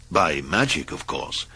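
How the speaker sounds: usual speaking voice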